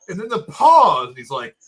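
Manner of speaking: normal talking voice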